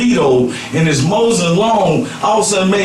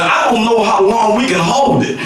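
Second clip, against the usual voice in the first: mock Scotty yell; 2 semitones higher than usual. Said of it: "Scotty was yelling to the captain".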